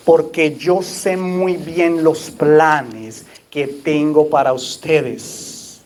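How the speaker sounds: Porque yo sé muy bien los planes que tengo para ustedes, read very slowly, each word weighed; slow solemn reading. Shown as a demonstration. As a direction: linger over every word of the verse like a solemn proclamation. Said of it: "le voy a volver a leer eso".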